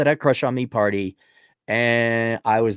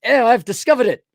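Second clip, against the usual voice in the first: lightly voiced posh gentleman, raised pitch; posh and handsome; 9 semitones higher, 3 dB louder than usual. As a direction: say "discovered" like a smug, suave aristocrat. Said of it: "much more posh and handsome".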